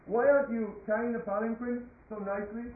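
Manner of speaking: lightly voiced royal sarcasm; sarcastic king. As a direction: needle the weakling with feigned sympathy. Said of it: "He was being very sarcastic".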